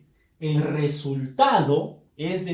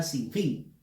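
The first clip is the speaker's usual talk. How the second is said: "sin fin" as one word, weight on fin; stress on FIN; 3 semitones lower, 4 dB quieter than usual. Shown as a demonstration. Teacher fusing two words, "sin fin" stressed on fin. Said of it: "Fuerza de voz está en fin".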